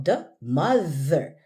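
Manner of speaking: "the mother" slow, both th sounds voiced with tongue out; modelling the th. Shown as a demonstration. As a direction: stretch the th in "the mother" for the student. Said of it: "it's the the, the sound again".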